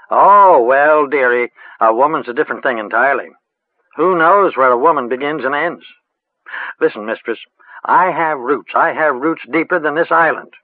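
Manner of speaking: lightly voiced old crone growing solemn; old witch voice. A narrator's reading. Moss, old village witch.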